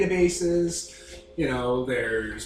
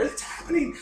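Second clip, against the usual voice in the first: panicked shout; 6 dB louder than usual. Acted. Villagers panic over bears.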